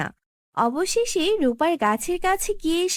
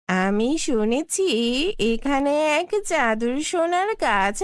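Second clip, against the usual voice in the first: wicked sorceress. Acted. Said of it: "এক দুষ্টু জাদুকরি কালিকা".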